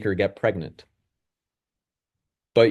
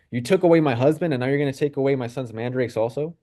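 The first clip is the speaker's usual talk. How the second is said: sarcastic; 3 semitones higher, faster than usual. Retold or imitated. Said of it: "more sarcasm toward Rachel".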